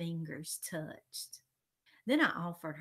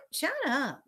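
loud, high snap; annoyed order; 8 semitones higher, 8 dB louder than usual. A narrator's reading. Elaine silences singing Daniel, annoyed order. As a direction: cut the kid off sharply.

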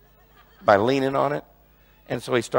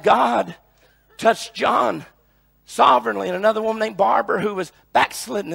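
raised, emphatic testimony preaching; impassioned preacher telling a testimony; fervent preaching; 7 semitones higher, 9 dB louder than usual. Real, not acted. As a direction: build the list phrase by phrase to the church.

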